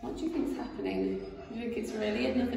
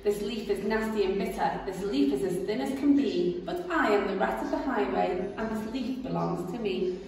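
boastful rat. Acted. Rat demanding the rabbit's cakes, swaggering. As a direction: demand it like a bully. Rat's scorn.

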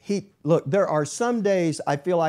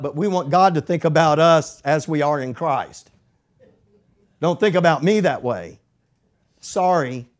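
higher and louder, fervent preaching; preaching at full force; 4 semitones higher, 5 dB louder than usual. Acted. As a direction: drive the point home to the congregation.

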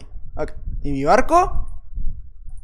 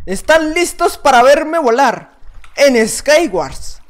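slow, louder, higher hype-up; hype announcement; 5 semitones higher, 5 dB louder, much slower than usual. Real, not acted. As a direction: stretch it out like announcing a stunt. Hyping the big jump.

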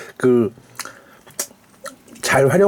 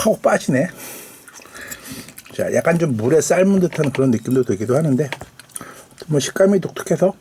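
normal talking voice

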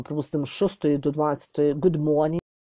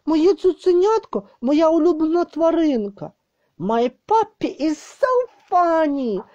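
put-on much higher, lively sing-song reading for kids; reading to children; 8 semitones higher than usual. Shown as a demonstration. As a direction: read it brightly, like to a small child. Bilingual read-aloud of poem to children. (дитяче читання віршика, високим голосом)

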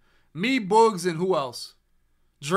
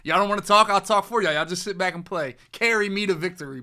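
mock trash talk; 4 semitones higher, 5 dB louder than usual. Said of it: "I would just start talking for him".

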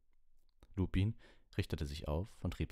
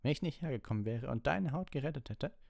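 angry rant; 10 semitones higher than usual. A narrator's reading. Snape rants at Harry.

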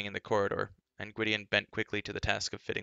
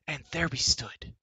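slow, higher, thrilling tale voice; eager storyteller girl; 7 semitones higher, 4 dB louder than usual. A narrator's reading. Elenwy telling the court ladies, higher dramatic voice. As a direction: spin a battle tale with flair.

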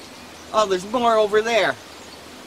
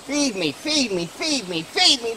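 mock whining; 5 semitones higher than usual. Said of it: "That's all I hear".

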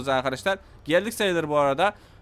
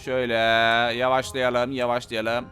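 self-soothing; 7 semitones lower than usual. Real, not acted. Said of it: "Sakin olalım".

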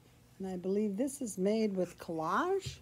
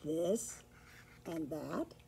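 low, soft, lightly purred reply; mildly purring storybook cat; 4 semitones lower, 9 dB quieter, slower than usual. A narrator's reading. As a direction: answer with a hint of a cat's purr. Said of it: "purred the cat".

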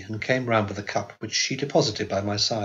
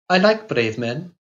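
put-on slow wistful girl; 5 semitones higher, 4 dB louder, slower than usual. A narrator's reading. Girl speaks of the dead.

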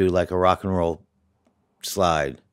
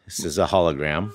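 robot voice; 2 semitones lower than usual. Pretend. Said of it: "I will be talking in a robot voice from here on out".

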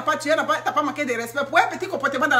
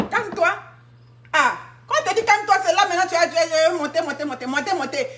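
higher and faster, rising then fading; escalating mock rage; 5 semitones higher than usual. A woman acts out a rising temper, in escalating mock rage. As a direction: mimic anger climbing up.

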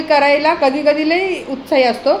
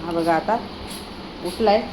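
usual speaking voice

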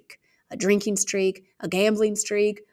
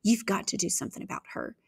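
hushed argument; 6 dB quieter, faster than usual. Acted. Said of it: "a fierce discussion".

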